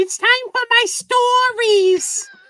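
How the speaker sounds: put-on very high, slow old-woman voice, drawn out. Joking about an old woman sitting on the couch: imitating an old woman. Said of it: "sounds like an old woman sitting on the couch".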